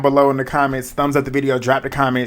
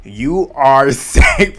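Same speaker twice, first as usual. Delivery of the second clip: drawn-out host reveal; much slower than usual. Retold or imitated. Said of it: "she goes in there and states".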